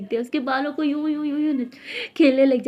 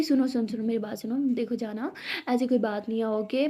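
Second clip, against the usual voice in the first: softer, coaxing voice; gently calm her down; soothing; 4 dB quieter than usual. Acted. गुस्साई दोस्त को मनाना. (नरमी से मनाते हुए)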